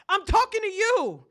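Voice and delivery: high, loud exasperated retort; indignant mother. Acted. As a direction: snap back like an offended mother. Mother snapping back at suggestion.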